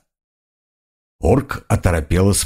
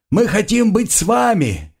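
shouting; 11 semitones higher than usual. A narrator's reading. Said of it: "крича".

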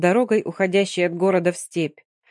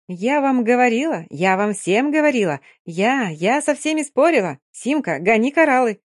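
triumphant; 4 semitones higher, 3 dB louder than usual. Acted. Brashka triumphs over Simka.

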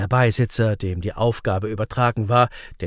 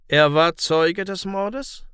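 slow, higher-pitched amazement; astonished question; 6 semitones higher, slower than usual. A narrator's reading. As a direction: ask it slowly, taken aback. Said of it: "fragte der Richter verwundert".

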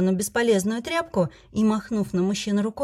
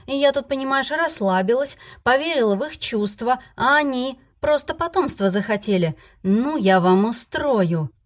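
indignant rant; 4 semitones higher than usual. Acted. Heroine rants at her husbands.

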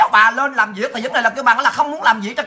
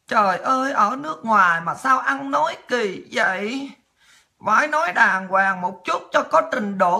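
slow, subdued imitation of scolding critics; mock prim reproach; 3 dB quieter, slower than usual. Streamer mimics critics complaining about her language, mock prim reproach.

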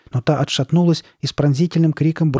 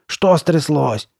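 slow, higher, anxious question; worried question; 4 semitones higher, 4 dB louder, much slower than usual. A narrator's reading. Carly Beth to her silent friend, worried. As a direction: draw it out with concern. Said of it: "с беспокойством спросила".

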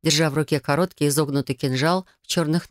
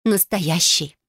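proud; much slower than usual. Acted. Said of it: "гордо добавила".

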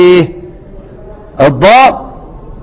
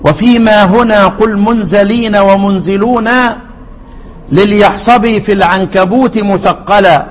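poem recitation; slower than usual. Acted. Recites the poem's couplet.

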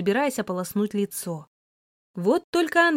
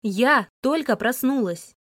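angry, clipped; 3 semitones higher than usual. Acted. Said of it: "Зло отчеканила я".

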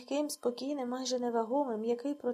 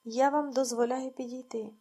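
almost cheerful call; 4 dB louder than usual. Acted. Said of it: "гукнула майже весело".

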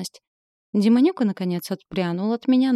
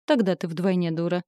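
malicious smirk. Acted. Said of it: "злобно усмехнулся".

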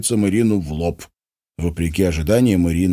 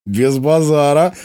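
cheered up; 8 semitones higher, 4 dB louder, slower than usual. A narrator's reading. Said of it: "повеселел и оживился Димон".

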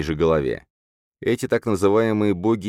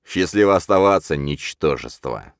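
contemptuous. Acted. Villain's parting sneer.

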